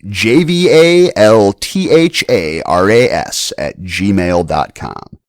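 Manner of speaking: slow, spelled out letter by letter; slow dictation. Real, not acted. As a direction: dictate it slowly so they can write. Spelling out email address slowly.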